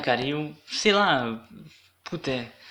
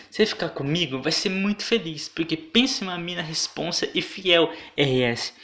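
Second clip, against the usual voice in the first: voz afetada; 4 semitones higher than usual. Retold or imitated.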